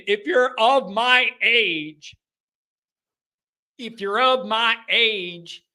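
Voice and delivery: put-on slow, drawn-out Texas accent. Host to listeners of his age, slipping into Texas accent. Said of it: "had a Texas A and M accent".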